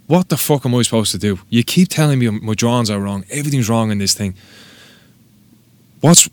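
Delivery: mock-fed-up rant, pitch climbing as it builds; retold outburst. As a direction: act out a fed-up apprentice finally snapping. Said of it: "your man snapped".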